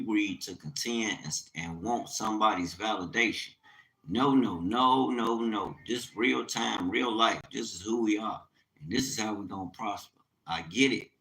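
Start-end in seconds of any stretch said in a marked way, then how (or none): 4.1-11.1 urgent pleading. Real, not acted. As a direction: press it on the congregation with urgency. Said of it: "I'm speaking with an urgency".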